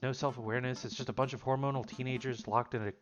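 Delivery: put-on sulky teenager grumbling to her dad; lightly voiced teen daughter. Amanda tells her dad middle school was awful, mildly grumpy.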